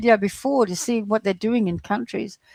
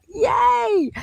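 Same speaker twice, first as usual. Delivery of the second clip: sarcastic yay; 13 semitones higher than usual. Acted. Sarcastic cheer about fema camps.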